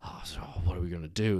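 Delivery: fast, breathless mock panic, whispered; imitating scared kids, hurried and hushed; panicked whisper. Princes freaking out after the killing, fast panicked whisper. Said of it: "So they're all like".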